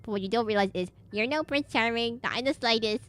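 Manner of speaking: lightly goofy mocking villainess; a hint of a goofy villainess mocking Kyle. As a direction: tease the hero in a goofy put-on voice. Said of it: "I give her this goofy voice".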